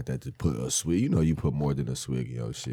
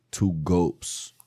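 aggressive; 4 semitones lower, much slower than usual. Real, not acted. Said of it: "say gulps, like, so aggressive".

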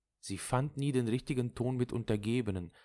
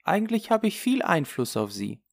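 higher, emphatic inner remark; self-assured character voice; 13 semitones higher, 5 dB louder than usual. Acted. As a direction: voice it higher, pleased with your influence. (selbstbewusste, höhere Figurenstimme)

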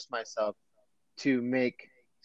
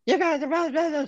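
much higher voice, mocking a rude boss lady; mocking a bossy manager. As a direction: squeak it out like a snotty supervisor. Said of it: "some lady was just like".

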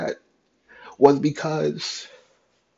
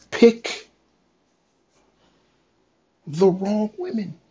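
crying whisper; 6 semitones higher than usual. Retold or imitated. Retold anguished self-questioning.

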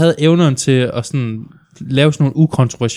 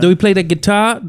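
higher, mock-amazed question; over-the-top reactor; 6 semitones higher than usual. Imitating a reactor who hears metal guitar, over-the-top amazement. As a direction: mimic an astonished music reactor. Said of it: "Det er sådan noget over the top".

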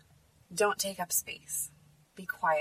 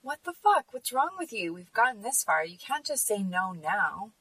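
mock the guy blowing up at a no; retold angry outburst; 3 semitones higher than usual. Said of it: "he says".

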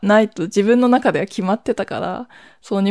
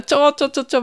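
quick higher "ちょ、ちょ" stammer of alarm; flustered protest; 6 semitones higher, faster than usual. Retold or imitated. The speaker, caught off guard by her sister leaving, calls out in a flustered protest. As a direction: stop her in a panicked rush. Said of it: "みたいな。".

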